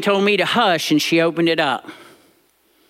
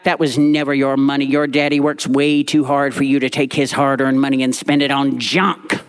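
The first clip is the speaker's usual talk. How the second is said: mock snap back; 5 semitones lower than usual. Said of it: "Granny snapped back".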